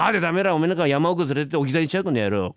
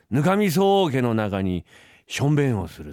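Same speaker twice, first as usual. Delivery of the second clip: slow tease; slower than usual. Acted. Kid teases with a slow threat.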